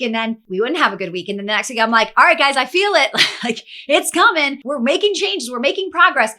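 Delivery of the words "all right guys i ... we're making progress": rallying pep talk. Retold or imitated. Rallying the team after bad week.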